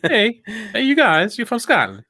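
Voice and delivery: high, put-on British accent; half-joking mock-British squeak; badly faked British accent. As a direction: read it in a silly high British voice. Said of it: "try to say that in the British accent".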